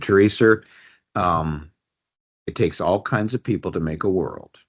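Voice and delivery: put-on a touch of an old Brooklyn father; Brooklyn accent. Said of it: "He still had his Brooklyn accent".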